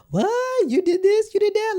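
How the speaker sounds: high squeaky gasp of disbelief; high-pitched mock shock. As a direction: act out someone stunned by a confession. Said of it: "relate and also be like".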